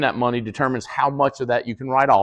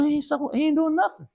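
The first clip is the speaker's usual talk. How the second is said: high-pitched exasperated retort; mock exasperated; 13 semitones higher, 6 dB quieter than usual. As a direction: toss it off in high disbelief. Retold exasperated reply.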